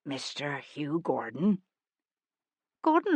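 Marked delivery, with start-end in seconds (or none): 0.0-1.6 soft, slow, unsure address; a meek stranger hat in hand; lightly voiced shy visitor; timid humble caller. Timid disguised man approaching.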